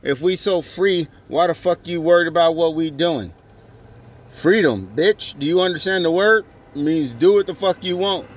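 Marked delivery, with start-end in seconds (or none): 1.5-8.3 angry rant. Real, not acted.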